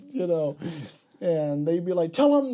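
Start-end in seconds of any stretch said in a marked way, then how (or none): 2.1-2.5 high, loud mock order; imitating a doctor calling out. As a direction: call it out high and loud from another room.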